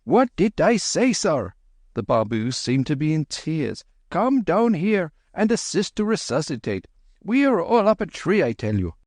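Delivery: high near-tearful Babu plea. Acted. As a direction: wail for help, high. Babu in tears, calling.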